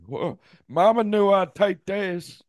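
high, slow hick drawl; white trash kid. Retold or imitated. Riffing as the white trash kid, high slow hick voice. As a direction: stretch it out like a redneck boy. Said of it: "that fucking white trash".

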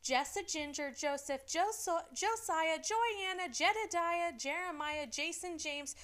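a hint of Michelle's sweet mom voice; imitating Michelle. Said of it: "Did I sound like her?".

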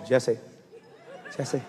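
soft, quiet calling of the name, a hint of a whisper; whisper of the Lord. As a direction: call Jesse gently, as a quiet divine whisper. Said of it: "I heard the Lord say".

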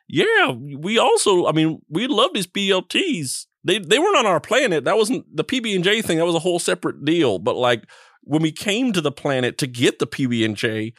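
casual alien explaining himself with swooping intonation; lightly voiced alien.

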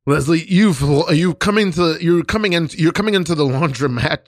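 mock grand drama coach voice. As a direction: lay on the solemn teaching tone. Pompous teacher instructing scene.

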